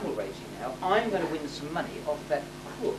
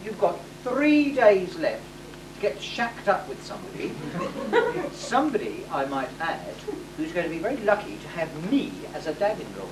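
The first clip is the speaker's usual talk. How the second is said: hammy sultan laying down the law; pompous decree. Acted. Panto sultan announcing the marriage law to his daughter. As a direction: proclaim it like a self-satisfied panto sultan.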